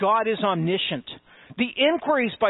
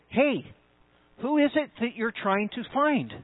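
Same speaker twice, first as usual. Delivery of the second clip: higher-pitched "Hey", then a pointed "who is it"; emphatic question; 4 semitones higher than usual. Acted. Jesus questioning the soldiers once more, emphatic. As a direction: call "Hey" up high, then press the question to "find". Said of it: "there's a tremendous emphasis here".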